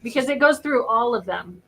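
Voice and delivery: usual speaking voice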